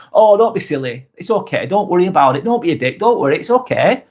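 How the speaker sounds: light, lilting friendly reassurance; friendly, calm. Shown as a demonstration. Showing viewers how a swear can sound kind, friendly and reassuring. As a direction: wave it away kindly, lifting at the end. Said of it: "in a friendly way".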